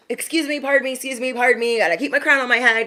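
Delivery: high, hurried excuse-me voice; mock polite brush-past. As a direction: act out squeezing past people, airily. Acts out pushing through a mess.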